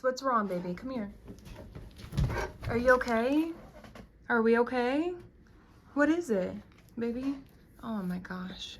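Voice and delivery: soothing the dog. Real, not acted. Soothing her frightened barking dog.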